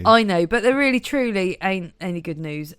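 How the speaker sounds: put-on broad Norfolk accent. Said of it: "the Norfolk Siobhan".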